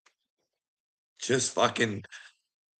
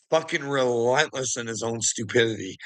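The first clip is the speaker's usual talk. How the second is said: usual speaking voice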